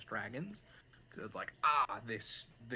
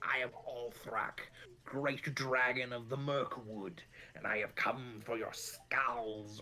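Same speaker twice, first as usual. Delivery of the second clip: slow, grand dragon boast; slower than usual. Retold or imitated. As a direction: announce yourself like an ancient dragon. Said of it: "will go, like".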